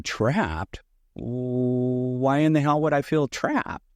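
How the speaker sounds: drawn-out, baffled pushback; mock disbelief, stretched out; incredulous retort. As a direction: question it slowly, as if the idea is absurd. Acted baffled retort to Steve.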